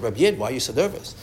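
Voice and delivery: soft, hushed and quick, leaning in close; gentle whisper. Retold or imitated. Shlomo Carlebach leans in to the frightened man, whispering. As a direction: ask it under your breath, kindly.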